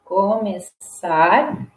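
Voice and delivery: começar slow and low, with a hissed s; som de S. Shown as a demonstration. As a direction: draw out começar syllable by syllable. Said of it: "som de S". (começar devagar, com som de S)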